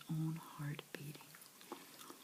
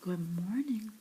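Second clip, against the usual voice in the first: a boy putting on a touch of royal grandeur, voiced and louder; regal voice; 2 semitones higher, 9 dB louder than usual. Lionel greeting the palace guard, mildly regal. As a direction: greet the guard like a little king. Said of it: "in his most regal voice".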